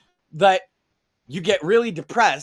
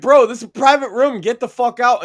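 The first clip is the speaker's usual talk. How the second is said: retold telling off; 4 semitones higher, 5 dB louder than usual. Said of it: "I was like".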